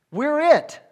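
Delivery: We're it called out loud and high; loud preaching emphasis; emphatic declaration. Real, not acted. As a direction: proclaim it to the room. Preacher driving home the point.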